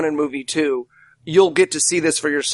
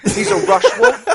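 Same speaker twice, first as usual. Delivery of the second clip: usual speaking voice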